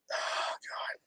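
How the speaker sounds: breathless hushed whisper. Real, not acted. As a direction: whisper it to yourself. Whispered aside.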